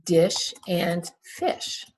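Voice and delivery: dish and fish said slowly, short i clear; slow teacher modelling of dish and fish; slow phonics demo. Shown as a demonstration. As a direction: stretch the short i. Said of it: "What vowel sound".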